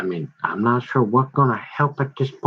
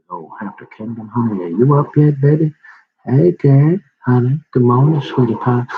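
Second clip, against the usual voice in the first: loud sugary morning greeting; sweet-talking; 2 semitones higher, 4 dB louder than usual. Retold or imitated. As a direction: call out sweetly to wife.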